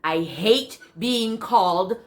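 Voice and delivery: emphatic protest, leaning on key words; indignant retort. Acted. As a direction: push back hard, voice lifting as it goes. Retorts to the man, acted.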